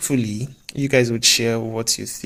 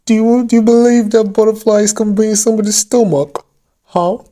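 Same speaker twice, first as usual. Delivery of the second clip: much higher, louder mock British accent; fake British accent; 10 semitones higher, 6 dB louder than usual. Vlogger pressing the question in a fake British accent. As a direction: ham up the British accent to the top. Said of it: "Don't mind my fake British accent".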